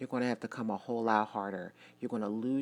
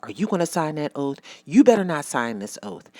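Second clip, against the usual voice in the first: mock interrogation; 6 dB louder than usual. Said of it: "like, interrogating".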